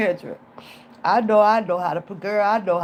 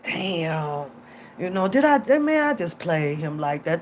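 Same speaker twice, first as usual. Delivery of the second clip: guilty self-talk; 4 semitones lower than usual. Retold or imitated. Feeling guilty about faking sickness, low regretful self-talk. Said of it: "I be saying that to myself".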